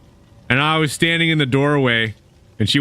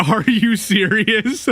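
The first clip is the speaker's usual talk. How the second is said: mock disbelief; 5 semitones higher, slower than usual. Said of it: "I was like".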